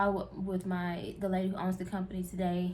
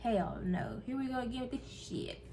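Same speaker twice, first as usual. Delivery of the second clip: exasperated; 3 semitones higher, 5 dB quieter than usual. Retold or imitated. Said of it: "I just gotta say it like that".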